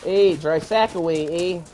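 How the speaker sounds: lightly put-on Canadian accent. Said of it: "Sounds Canadian".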